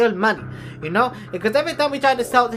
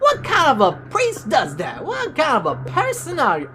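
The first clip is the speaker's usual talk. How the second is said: outraged shout; 3 semitones higher than usual. Acted. Siblings berating the priest.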